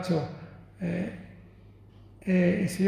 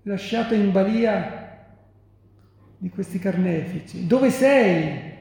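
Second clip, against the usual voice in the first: raised, pleading accusation of abandonment; despairing reproach. Acted. Son to the Father who abandoned him, despairing reproach. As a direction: build the reproach, easing off before a last outcry. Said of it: "Il figlio che dice al padre".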